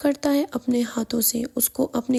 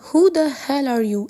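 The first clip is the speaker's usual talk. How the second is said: slow, louder angry demand; 2 semitones higher, 5 dB louder, much slower than usual. Acted. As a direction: spit it out slowly at the stranger. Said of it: "غصے سے کہتا ہے". (غصے میں آہستہ اور زور سے)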